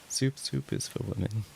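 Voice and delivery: high, put-on voice, stuttering on soup; mock meme voice. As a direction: say it again like the meme character. Repeating the meme line.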